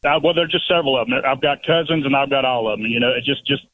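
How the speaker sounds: ordinary talk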